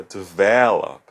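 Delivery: develop with VEL stressed; de-VEL-op, leaning on the middle of develop; stress on second syllable. Shown as a demonstration. Teacher showing where emphasis falls, develop with VEL stressed. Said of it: "na segunda sílaba".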